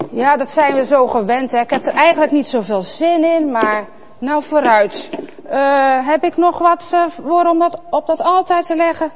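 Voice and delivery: unwilling Kaïn. Acted. Kaïn half-heartedly looking for an offering. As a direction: rush it like a bored chore.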